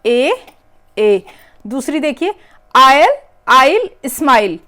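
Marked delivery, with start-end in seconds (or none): 2.8-4.6 आइल स्माइल slow and loud, rhyme sound stretched; आयल, आइल स्माइल drawn out loudly to show the rhyme; emphasised rhyme sound. Shown as a demonstration. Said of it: "आपका sound change हो गया".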